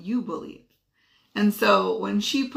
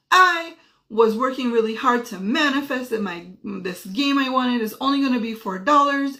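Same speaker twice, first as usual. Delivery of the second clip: higher, louder retold child's complaint; imitated tearful outburst; 4 semitones higher, 4 dB louder than usual. Daughter blaming mom at dinner, imitated tearful outburst. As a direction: imitate an upset child blaming mom, without real crying. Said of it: "she starts crying".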